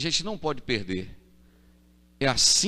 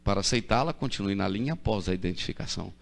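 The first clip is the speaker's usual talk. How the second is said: operator recording voice; 3 semitones lower, 3 dB quieter than usual. Retold or imitated. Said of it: "aquela moça tem uma voz tão bonita".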